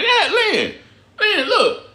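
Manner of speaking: high laughing call to a viewer. Real, not acted. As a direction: laugh out the name Lynn. Laughing at a chat comment.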